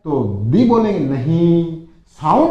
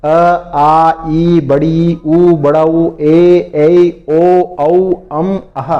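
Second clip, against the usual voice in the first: reciting vowels; 4 dB louder, much slower than usual. Shown as a demonstration. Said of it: "Hindi के स्वर कौन से वो भी देख लीजिए".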